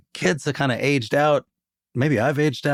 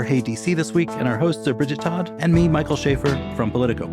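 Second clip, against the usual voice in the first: outro read; 2 semitones higher than usual. Acted. Host reads the show credits over music.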